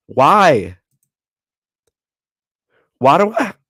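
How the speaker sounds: loud, high yell cracking mid-word. Sorting his minifigures, the speaker yells in frustration, yelling, voice cracking. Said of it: "I can't even yell without voice cracking".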